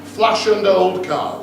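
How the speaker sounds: put-on Flash and old cars drawn out slowly in a Geordie accent; slow Geordie repeat. Shown as a demonstration. Best man's dad repeating the phrase for the crowd, slow Geordie. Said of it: "How do you say that?".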